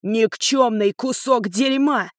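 slow furious shout; father roaring at his son; raging roar. Acted. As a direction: roar each insult. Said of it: "ревел мой свёкор".

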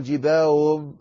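جباههم with the two ha run into one; wrong, ha merged. Shown as a demonstration. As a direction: blur the ha in جباههم. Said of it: "وتدغم".

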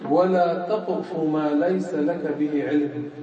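slow, measured quoting of the verse; Quran recitation. Shown as a demonstration. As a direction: recite the verse slowly and solemnly. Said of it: "الله تعالى قال". (تلاوة آية ببطء ووقار)

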